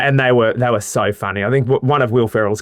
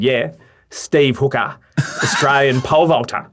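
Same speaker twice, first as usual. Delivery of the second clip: mock Australian accent, drawn out at first; imitated Australian accent; 3 semitones higher than usual. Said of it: "Can you do an Australian accent".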